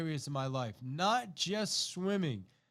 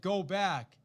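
firm coach order, a bit louder; firm command; 3 semitones higher, 4 dB louder than usual. Retold or imitated. Coach orders swimmer back.

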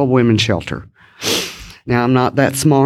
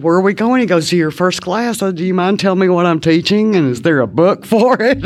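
raised, anxious questions; panicked new teacher; 6 semitones higher than usual. Retold or imitated. To the principal on her first day, high flustered questions. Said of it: "the principal comes in".

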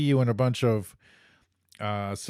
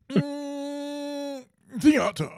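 snooty voice; 13 semitones higher, much slower than usual. Pretend. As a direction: savour «Mm, theater» like a connoisseur. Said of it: "in the most snooty possible voice".

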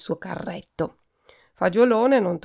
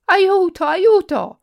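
much higher, loud mock-desperate yells; cry for help; 11 semitones higher, 9 dB louder, slower than usual. A narrator's reading. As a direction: shriek for help from the wardrobe.

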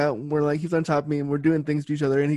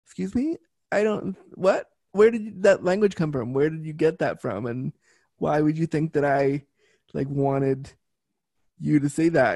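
startled disbelief. Retold or imitated. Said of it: "And I went".

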